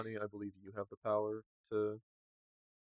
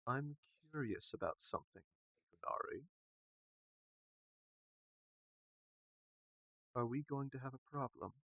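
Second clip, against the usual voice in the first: sultry voice; 4 semitones higher than usual. Acted. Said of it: "let's hear you do a sultry voice".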